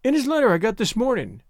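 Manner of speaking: put-on high, girlish explaining voice; earnest young woman. A narrator's reading.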